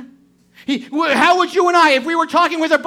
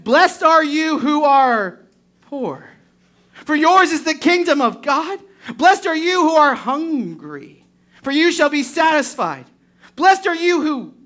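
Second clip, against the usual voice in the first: slow, solemn reading of scripture. Acted. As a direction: read each blessing out deliberately. Reads the Beatitudes aloud.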